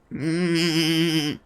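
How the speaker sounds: slow, drawn-out creature voice; monster character. Acted. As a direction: stretch the words like a cartoon monster.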